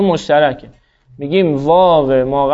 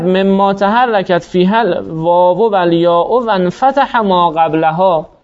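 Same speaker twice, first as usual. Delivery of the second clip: slow recitation; slower than usual. Shown as a demonstration. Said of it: "قاعده".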